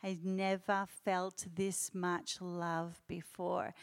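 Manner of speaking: soft, slow, gently tearful retelling; a touch of a man moved to tears; tearful quote. Retold or imitated. Quoting the guest who was crying as they prayed, softly tearful. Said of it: "he's just crying and just crying so much".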